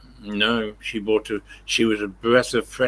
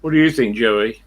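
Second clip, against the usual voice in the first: raised, louder pet-talk voice; talking to the dog; 4 dB louder than usual. Real, not acted. Man asking his dog Joey's opinion, raised pet-talk voice. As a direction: coax the dog for an answer.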